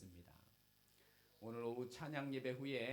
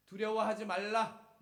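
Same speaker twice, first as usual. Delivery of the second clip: high, loud proclamation; preaching shout; 9 semitones higher, 13 dB louder than usual. Acted. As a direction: cry it out to the whole congregation. Preacher repeats scripture with force. (높고 크게 외치는 설교)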